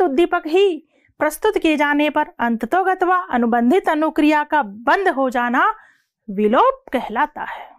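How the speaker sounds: rattled off in one quick run; the whole definition delivered at speed in one unbroken stream; said quickly. Shown as a demonstration. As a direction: read it straight through without stopping, at speed. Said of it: "मैंने line speed से बोली".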